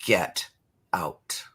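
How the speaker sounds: whispered banishing. Shown as a demonstration. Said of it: "there will be swearing".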